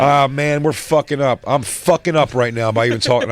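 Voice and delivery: loud mock-exasperated drunk fan; self-blaming drunk imitation. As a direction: berate yourself loudly, as an acted drunk. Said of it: "'cause he's drunk also".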